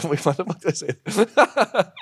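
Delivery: loud, high self-reproach; slow, high, loud comic regret; mock dismay. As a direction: act appalled at yourself, drawn out. Joking retold regret.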